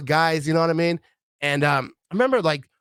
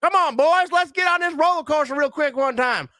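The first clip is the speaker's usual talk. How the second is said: fake bravado; 10 semitones higher than usual. Dad putting on bravado for his kids, fake-tough. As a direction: puff up to hide fear.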